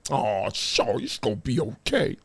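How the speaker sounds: low, soft mock comfort; mock soothing. Host to an upset critic, soft mock soothing. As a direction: soothe them in fake sympathy, hushed and low.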